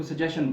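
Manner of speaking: सजेशन said the common way, sa-JE-shan; the familiar सजेशन, as teachers taught it; wrong pronunciation. Shown as a demonstration. Teacher showing the wrong way, सजेशन. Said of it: "this word is not suggestion".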